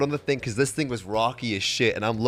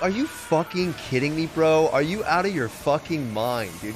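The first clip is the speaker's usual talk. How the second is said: mildly raised, retold indignation; incredulous outrage; 3 semitones higher than usual. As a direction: act out disbelief at yet another delay. Acted disbelief at another delay.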